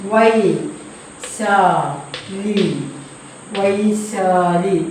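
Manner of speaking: വൈശാലി drawn out very slowly, syllable by syllable; slow spelling-out. Shown as a demonstration. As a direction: sound out വൈശാലി for young pupils. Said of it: "ഒരു രാജാവിൻ്റെ മകളുടെ പേരാണ്". (വൈശാലി പതുക്കെ നീട്ടി ഉച്ചരിക്കുക)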